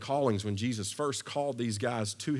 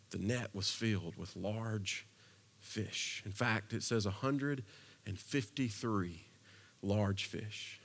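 hushed awe; 3 semitones lower, 6 dB quieter, slower than usual. Acted.

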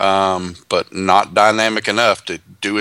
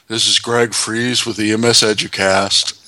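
starfish. Retold or imitated. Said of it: "my best Patrick the Starfish impression".

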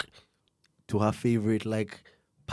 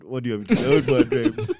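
louder repeat breaking into laughter; mock-indignant repeat; 3 semitones higher, 8 dB louder than usual. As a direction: play the defensive suspect, cracking up by the end. Repeats suspect's defence, building into laughter.

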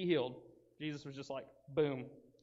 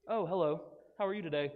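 polite calm man. Acted. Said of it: "now he's sitting there like".

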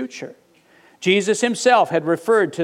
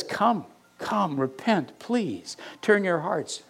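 begging; 7 dB quieter, slower than usual. Retold or imitated. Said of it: "he's just begging them".

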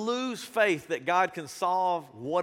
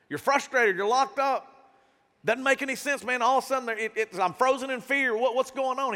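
frustrated; 4 semitones higher than usual. Acted. Voices a frustrated, fearful believer.

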